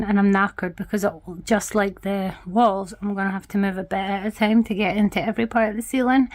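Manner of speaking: breathless after painting; out of breath. Real, not acted. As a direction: puff through the words. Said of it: "I'm so out of breath".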